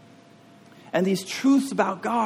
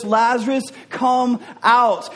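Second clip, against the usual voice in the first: raised, ringing command; loud calling voice; 7 semitones higher, 5 dB louder, slower than usual. Acted. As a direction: call out loudly to summon someone. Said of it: "Jesus called in a loud voice".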